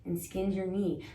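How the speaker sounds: gentle mock soothing; tender comfort. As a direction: comfort a hurt child. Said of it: "It's a".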